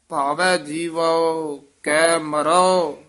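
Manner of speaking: slow phrase, then a full stop after ਮਰੋ; slow with a pause. Shown as a demonstration. Teacher modelling the pause after ਮਰੋ, slowly. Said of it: "ਇੱਥੇ ਵਿਸਰਾਮ".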